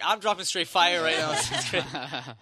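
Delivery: slow, drawn-out hype with a laugh; retold cocky hype; hyped boast. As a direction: stretch out the brag, half laughing. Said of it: "I was hyped for my own album".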